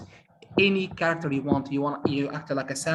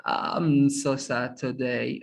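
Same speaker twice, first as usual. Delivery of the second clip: slow, half-hearted mock sadness; a badly faked sad line, dragged out; unconvincing sad; 3 semitones lower, much slower than usual. Shown as a demonstration. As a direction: say you're sad without feeling it. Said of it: "no one is gonna believe you".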